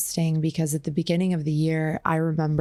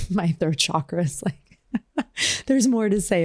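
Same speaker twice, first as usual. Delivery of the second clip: laughing; 3 semitones higher than usual. Real, not acted. Laughing at her voice crack.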